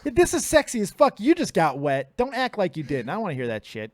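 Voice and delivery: hammed-up seductive lounge voice; sexy voice. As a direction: lay on the fake seduction thick. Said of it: "when this voice comes on".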